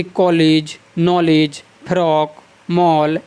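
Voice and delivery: English "aw" sound in each of कॉलेज, नॉलेज, फ्रॉक, मॉल; borrowed English vowel. Shown as a demonstration. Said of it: "इस आगत स्वर का प्रयोग होता".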